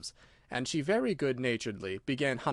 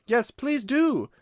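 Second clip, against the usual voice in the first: very high, loud and slow eager plea; a crowd of animals calling after the mouse; chorus call; 11 semitones higher, 6 dB louder, much slower than usual. A narrator's reading. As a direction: call out together, begging. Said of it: "joined in chorus".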